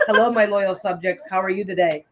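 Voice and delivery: mock-royal greeting to subjects; warm regal boom. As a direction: greet your loyal subjects like a queen. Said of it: "Say hello to your subject".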